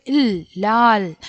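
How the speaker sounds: ഇൽ alone, then ലാൽ closing on that L; final L demo. Shown as a demonstration. Teacher answers her own question for learners, demonstrating ഇൽ in ലാൽ. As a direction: sound out ഇൽ, then blend into ലാൽ with no final vowel. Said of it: "എങ്ങനെയാ ഉച്ചരിക്കുന്നത്?".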